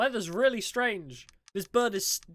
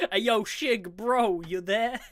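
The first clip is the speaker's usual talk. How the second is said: louder, slower call into the empty room; drawn-out, louder call for a missing friend; 6 dB louder, slower than usual. Real, not acted. Player calling louder for missing friend Shig, drawn out.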